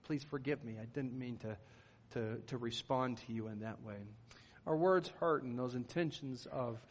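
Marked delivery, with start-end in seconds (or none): 0.0-4.0 apologizing. Retold or imitated.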